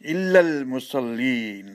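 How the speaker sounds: slow chanted recitation with a rising close; slow Quranic chant. Acted. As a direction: intone the verse slowly and reverently.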